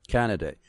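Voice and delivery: "Canaday" echoed as CAN-a-day; repeated pronunciation. Shown as a demonstration. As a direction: repeat "Canaday" in three beats, stress first. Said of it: "how do you pronounce that".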